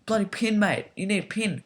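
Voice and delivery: high, huffy imitation of a wrestler griping at the ref; complaining AJ. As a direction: whine at the ref in a put-on high voice. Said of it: "A J's complaining to Maddox, like".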